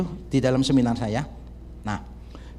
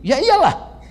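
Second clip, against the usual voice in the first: mocking duh; 9 semitones higher, 4 dB louder, slower than usual. Quoting youths' retort.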